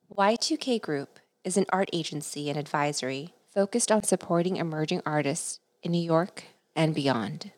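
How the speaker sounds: measured, scripted host introduction; podcast intro read. Acted. Host introduces the artist to listeners, scripted intro read. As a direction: read it as a prepared welcome.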